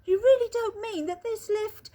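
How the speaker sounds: put-on an old man dreading the answer; alarmed shout. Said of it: "shouted Grandpa Joe".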